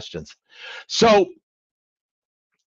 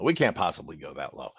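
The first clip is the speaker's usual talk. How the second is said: much lower and softer "We can't possibly go that low"; lower, softer repeat; 9 semitones lower, 6 dB quieter than usual. Retold or imitated. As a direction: echo the refusal lower and quieter, as a mock aside. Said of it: "you're gonna be".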